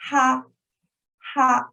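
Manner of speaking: teacher modelling the flat tone; first tone. Shown as a demonstration. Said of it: "Please try after me".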